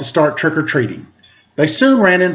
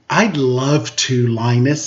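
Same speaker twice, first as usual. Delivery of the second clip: lovestruck; 4 semitones lower, slower than usual. Acted. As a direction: sigh it out like a girl in love. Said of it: "said Sally".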